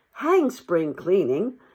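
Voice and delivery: drawn out, fed-up little mole; slow defiant mole voice. Acted. Mole throwing down his brush, slow and defiant. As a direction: stretch it out, done with chores. Mole's rebellious outburst.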